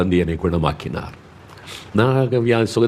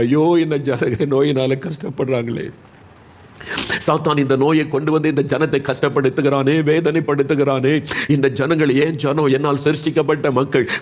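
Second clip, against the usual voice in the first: higher-pitched, pitying lament; heartfelt compassion; 4 semitones higher than usual. Acted. Jesus grieving over His sick people, heartfelt compassion. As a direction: plead with aching pity for suffering people. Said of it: "மனதுருகினார்".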